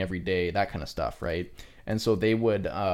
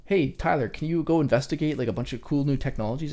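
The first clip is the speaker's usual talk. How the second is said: higher-pitched, upbeat mock boss request; lightly acted request; 6 semitones higher than usual. Boss asking Tyler to investigate new technologies, lightly acted request. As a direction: lightly play someone handing out a task. Acting out being handed research tasks.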